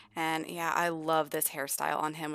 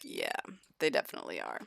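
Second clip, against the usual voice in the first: dog's voice; 5 dB quieter, faster than usual. Acted. Dog voiced answering Damien.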